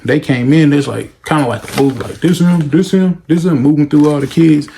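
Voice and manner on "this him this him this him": higher, eager pointing out; hyped kid voice. Retold or imitated. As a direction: call him out, excited. Kids pointing him out.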